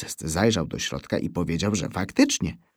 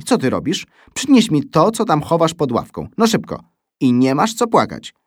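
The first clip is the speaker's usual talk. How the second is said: podniesiony głos karcącej nauczycielki; krzyk; 7 semitones higher, 6 dB louder than usual. A narrator's reading. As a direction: rozkazuj uczniowi wyżej i donośniej. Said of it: "krzyknęła pani". (po polsku: głośna bura od pani)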